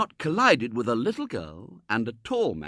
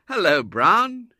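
slow, loud, higher call; 10 semitones higher, 10 dB louder, slower than usual. A narrator's reading. Tall man hailing his business friend, loud call. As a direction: call across the garden. Calling across garden.

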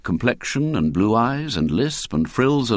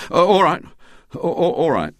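higher, flustered schoolboy; hasty capitulation; 9 semitones higher, 4 dB louder than usual. A narrator's reading. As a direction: give in quickly before she can finish. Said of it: "he said hastily".

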